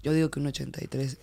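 unvoiced whisper. Real, not acted. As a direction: whisper the answer. Whispered answer.

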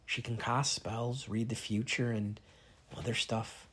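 soft, slow whisper; whispered reply. Acted. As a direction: whisper the answer slowly.

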